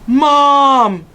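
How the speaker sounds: high, loud panicked cry; alarmed shout. A narrator's reading. Boy hearing his mother arrive, loud panicked shout. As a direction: blurt it out in panic. Sees car pull in.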